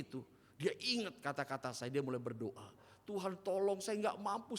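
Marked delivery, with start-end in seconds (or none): 3.1-4.6 higher pleading cry for help; imitated pleading prayer. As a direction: beg for help in tears, mildly acted. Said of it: "sampai dia nangis". (tiruan doa memohon sambil menangis)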